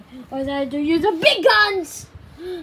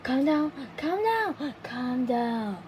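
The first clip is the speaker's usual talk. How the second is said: tag; 6 semitones lower, 7 dB quieter than usual. Acted. Calming self after outburst.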